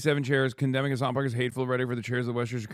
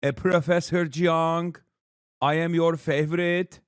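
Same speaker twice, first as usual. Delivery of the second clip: mock fawning fan. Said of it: "They're like".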